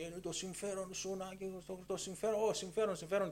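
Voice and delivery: high-pitched mock preaching; imitation of an insistent sermon voice; imitated forceful preacher. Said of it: "με μια δυνατή φωνή και έλεγε".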